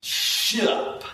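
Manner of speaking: "Shut up" squashed into one syllable, 'shup'; imitated 'shup'. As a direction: mimic the slurred child's version of "Shut up". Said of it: "She got it from me".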